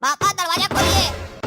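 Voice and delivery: drawn-out call through a door. Acted. Son calling to father to open the door, calling out. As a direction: call for dad, stretching the words slowly.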